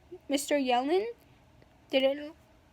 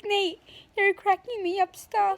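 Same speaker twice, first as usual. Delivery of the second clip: higher, mock-helpless protest; raised pitch, retelling a plea to stop; cracking up; 5 semitones higher than usual. Girl begging classmate to stop joking, high amused protest.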